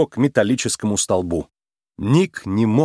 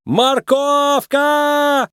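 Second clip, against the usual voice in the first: scream; 14 semitones higher, much slower than usual. A narrator's reading. Nick screams while being flung.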